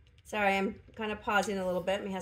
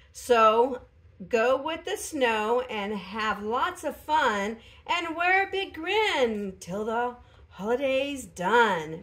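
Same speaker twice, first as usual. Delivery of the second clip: slow, louder storybook reading of a holiday rhyme; storybook narrator; 3 semitones higher, 6 dB louder, slower than usual. Acted. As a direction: read the card like a Christmas story narrator. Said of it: "hear it in that narrator's voice".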